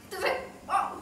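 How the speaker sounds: a sudden high-pitched wow of amazement; amazed wow. Real, not acted. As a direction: let the wow leap up in real wonder. Amazed at cousin's challenge. (seruan kagum bernada tinggi)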